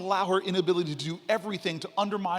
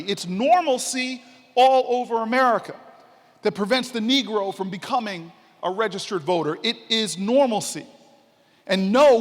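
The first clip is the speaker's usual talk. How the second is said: louder, rolling oratory; preaching King's words; 7 dB louder than usual. Retold or imitated. Speaker to audience, reading King's speech in louder, rolling oratory. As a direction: thunder it out like a civil rights preacher. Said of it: "Let me read you what King said".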